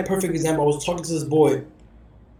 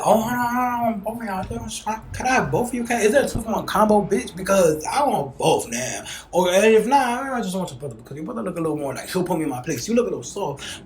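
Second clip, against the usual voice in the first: flirty brazen ask; 3 semitones higher than usual. Retold or imitated. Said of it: "I said".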